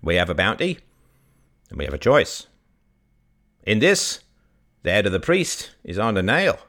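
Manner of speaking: lightly voiced old villager. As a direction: speak plainly like a creaky old farmer. Old Bob speaks at podium.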